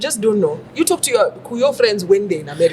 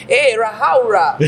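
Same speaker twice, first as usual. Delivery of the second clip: put-on Kikuyu accent; slower than usual. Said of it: "Straight out of Nyeri".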